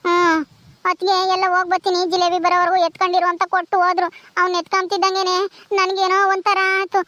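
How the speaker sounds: mildly tearful, plaintive confiding; acted tearfulness. Childless woman confiding her longing to an older woman, tearful. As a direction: confide the hurt through tears. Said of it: "ನೀನ್ ಯಾಕ್ ಅಳ್ತೀಯ".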